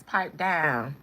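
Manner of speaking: lightly imitated rapper voice; a hint of a rapper's delivery; French Montana. Streamer orders it to pipe down, light rapper impression. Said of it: "in my French Montana voice".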